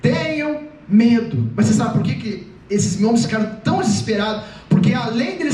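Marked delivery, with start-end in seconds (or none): 0.0-1.5 deliberate, spaced-out command; firm call that starts high; calling out reassurance. Acted. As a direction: project each word slowly. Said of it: "E depois ele fala".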